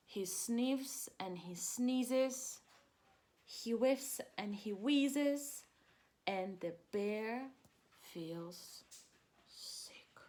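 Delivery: slow reading that fades into a whisper; slow read-aloud sinking to a whisper; fading storybook reading. A narrator's reading. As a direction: let the last words die away to a hush.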